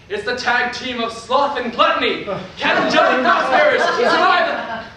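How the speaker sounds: loud hammed-up ring announcer; mock announcer. Boy playing alone announces the next fighters, loud. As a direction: boom it like a wrestling announcer.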